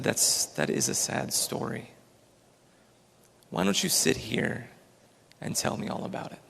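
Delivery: soft, sympathetic storybook voice; gently consoling. A narrator's reading. Old man inviting a grieving drunk to sit, gently consoling. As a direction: console him softly and tenderly.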